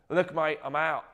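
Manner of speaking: hammed-up, bad Australian accent; terrible Australian accent. Host quoting Hugh Jackman turning down a cameo, terrible Australian accent. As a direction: quote him in a poor Australian accent.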